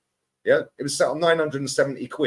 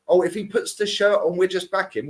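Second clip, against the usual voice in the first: higher-pitched imitation of fickle fans; mock fan; 6 semitones higher than usual. Pundit mimicking fans who back any signing, high and mocking. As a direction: parrot the fans' excuse in a raised voice. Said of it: "why didn't you back him then".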